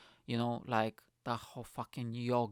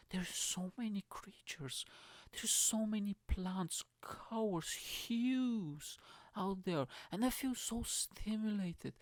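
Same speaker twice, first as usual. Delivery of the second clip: mock spiritual guru; 4 dB quieter than usual. Trying to impress the spiritual Tinder date, hushed mock guru whisper. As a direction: play the dreamy enlightened soul to win her over. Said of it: "I'll play a character".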